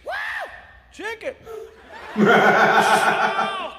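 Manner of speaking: high-pitched whoop of delight; excited. Retold or imitated. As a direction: imitate someone thrilled by a gift. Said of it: "He's getting excited over every single item".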